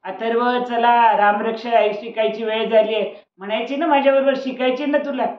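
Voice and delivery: grandma calling across the house. Acted. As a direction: call the boy in from the next room. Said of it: "आजीने आवाज दिला".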